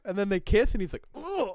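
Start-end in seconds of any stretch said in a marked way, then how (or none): 1.2-1.5 disgusted ugh. Retold or imitated. Acting disgust.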